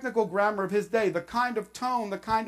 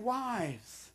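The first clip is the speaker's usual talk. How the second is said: gentle request. Shown as a demonstration. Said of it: "He's saying".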